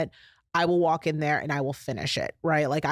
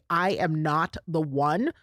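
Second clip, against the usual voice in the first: firm stand; slower than usual. Shown as a demonstration. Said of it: "look them in the eye and say".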